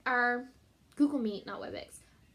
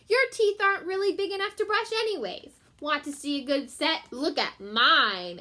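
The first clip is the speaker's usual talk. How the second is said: cat voice; 4 semitones higher, 4 dB louder than usual. Acted.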